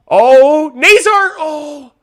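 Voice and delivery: very high, loud cry on Nazar; high excited shriek. Real, not acted. Streamer shrieking at Nazar's scoring chance. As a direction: shriek as the chance nearly goes in.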